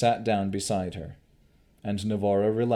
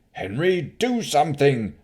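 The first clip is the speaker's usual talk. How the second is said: panicked stammer; 6 semitones higher, 6 dB louder than usual. Acted. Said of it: "the Baron stammered".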